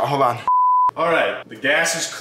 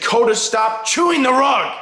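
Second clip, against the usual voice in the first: yell at dog; 9 semitones higher, 4 dB louder than usual. Real, not acted. Yelling at dog on rug.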